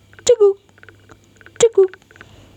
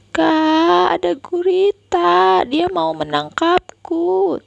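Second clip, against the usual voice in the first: frightened shout; 10 semitones higher, slower than usual. Acted. Boy yelling to sister about octopus, panicked. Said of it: "teriak Banyu".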